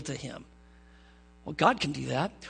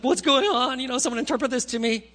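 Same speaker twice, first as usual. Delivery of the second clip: higher, louder, lightly hammed-up alarm; mock panic; 5 semitones higher, 4 dB louder than usual. King startled by writing on the wall, mock panic. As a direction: play a startled king demanding answers.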